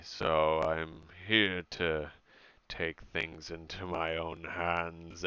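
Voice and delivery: low, slow demonic mumble; a light hint of a dark demon. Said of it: "mumbling in a dark, demonic voice".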